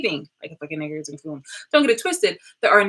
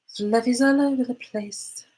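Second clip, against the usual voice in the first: higher, slow playful sing-song on fluffies; sing-song complaint; 7 semitones higher than usual. Pretend. Fluff everywhere from the cat, she sings it out playfully. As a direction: croon Fluffies all over the place, drawn out.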